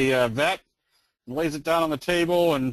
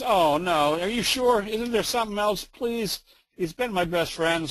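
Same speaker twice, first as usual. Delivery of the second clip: higher-pitched mock plea; pleading pet owner; 4 semitones higher than usual. Woman begging the vet about her parakeet, mock pleading. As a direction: plead as an upset customer, lightly hammed-up.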